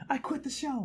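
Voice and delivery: very high, laughing squeal; mock quitting. Host jokes about a co-host storming off, high laughing mock outburst. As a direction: squeak out a pretend resignation.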